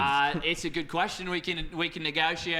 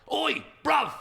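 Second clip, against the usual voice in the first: mock shout; 7 semitones higher than usual. Mock caster banter shout.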